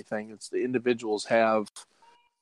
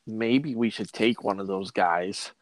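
put-on drunk voice. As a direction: talk like a rambling drunk. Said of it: "you sound a lot like homeless Jim's drunk voice".

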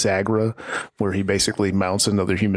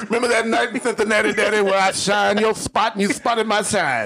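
wrestling promo; 10 semitones higher than usual. Acted. Wrestler promo bit, mock tribute.

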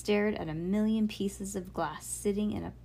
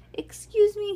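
much higher and louder, outraged; indignant dad; 13 semitones higher, 8 dB louder than usual. A narrator's reading. Dad to the girls, disbelieving, loud and indignant. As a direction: pounce on the suggestion in disbelief.

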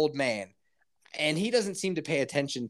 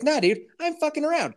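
mock sarcastic voice; 12 semitones higher than usual. Mock contrary line, high pitch.

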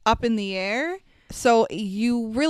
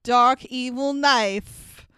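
spooky voice; 2 semitones higher, much slower than usual. Pretend. Spooky explanation, slow.

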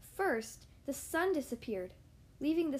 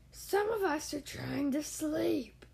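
deep growly voice; slower than usual. Acted. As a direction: growl like a sleepy bear. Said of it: "a deep, growly voice".

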